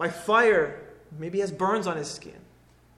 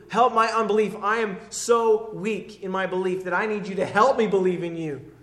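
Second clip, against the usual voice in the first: crying out in humility; 6 dB louder than usual. Retold or imitated. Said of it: "He's crying out in, in humility".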